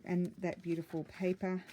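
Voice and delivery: slightly out of breath while talking; a little winded, catching breath. Real, not acted. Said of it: "Oh, I'm out of breath".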